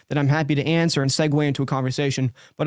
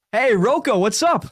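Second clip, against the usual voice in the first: higher and louder, "Rocco" said as a sure statement; name as a statement, excited; 7 semitones higher, 4 dB louder, slower than usual. Shown as a demonstration. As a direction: greet him like a long-lost best friend. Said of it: "So it's gonna be like".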